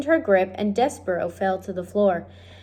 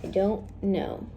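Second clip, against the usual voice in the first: cowering; 7 dB quieter than usual. Acted. Girl braces for a clout.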